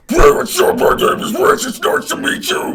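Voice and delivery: loud screamed death-metal growl; harsh guttural roar, comically polite greeting; deathcore voice. Shown as a demonstration. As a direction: introduce yourself in full deathcore scream. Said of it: "like my deathcore voice".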